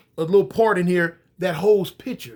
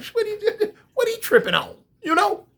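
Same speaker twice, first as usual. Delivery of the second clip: laughing. Real, not acted. Narrator laughing at the cop.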